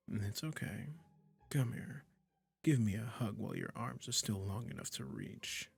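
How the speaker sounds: tender witch. Acted. Witch comforting the cat she transformed, tender and doting. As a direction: coo to the pet you just changed.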